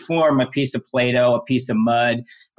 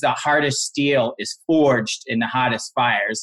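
plain

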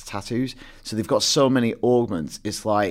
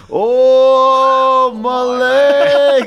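mock slowed-down game voice, higher and louder; 12 dB louder than usual. Retelling a game trailer scene where a man's legs are shot: imitating a slowed-down game voice. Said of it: "and in slow motion, this guy goes".

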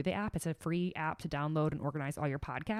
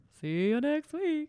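very high, loud, weirdly drawn-out voice; 10 semitones higher, 5 dB louder than usual. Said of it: "I didn't say it like that".

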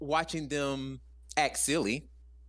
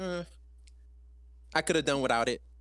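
ordinary talk

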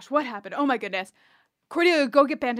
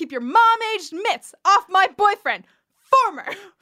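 mock yelling, louder and higher; 7 semitones higher, 5 dB louder than usual. Recapping an episode, speaker acts out a character yelling through a door: retelling a yell. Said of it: "She's like yelling through the door".

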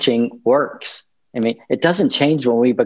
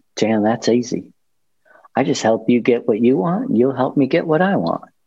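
put-on Southern accent. Retelling the boss's answer to a question, imitating Buzz, Southern accent. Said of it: "in a Southern accent".

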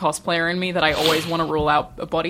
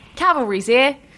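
high, pitched-up British character voice; 8 semitones higher, 3 dB louder than usual. Speaker says she wants to do Tracer voices, then does one: Tracer voice. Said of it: "I want to do Tracer voices so bad".

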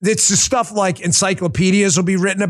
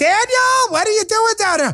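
high-pitched put-on motherly voice. Imagining a mother calling down to her son in the basement: imitating his mom. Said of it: "His mom's like".

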